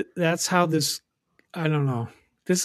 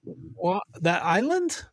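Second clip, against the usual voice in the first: higher, laughing puzzlement; mock confusion; 4 semitones higher, slower than usual. Imagined listener baffled about Jersey, higher and laughing. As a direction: sound baffled about which island. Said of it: "And they're like".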